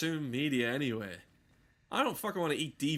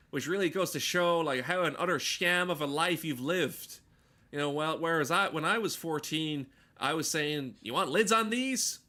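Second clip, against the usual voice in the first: higher, louder comic rant voice; George Miller bit; 4 semitones higher, 5 dB louder than usual. Retold or imitated. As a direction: rant it like a stand-up mocking wasted lives. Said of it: "here's a version of George Miller for that".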